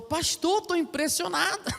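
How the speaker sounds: high, awed little voice; impressed. Retold or imitated. Church member telling the pastor what happened, high awed amazement. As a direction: sound floored and giddy, pitched high.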